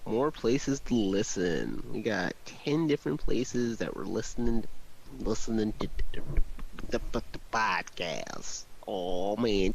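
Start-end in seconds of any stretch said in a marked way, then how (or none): 0.1-6.2 announcer voice. Acted. Announcer-style promo read. 6.9-8.6 low, slow announcer read. Acted.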